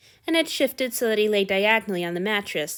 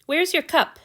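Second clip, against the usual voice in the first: sharp, higher and louder question; demanding; 9 semitones higher, 4 dB louder than usual. A narrator's reading. God demands his servant's cup, loud and sharp. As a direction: demand it of him impatiently. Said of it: "he demanded".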